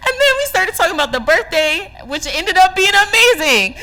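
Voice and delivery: high, teary laugh into the words; laugh-cry your way through it; laughing through tears. Real, not acted. Remembering a friend's kindness, teary laughing voice.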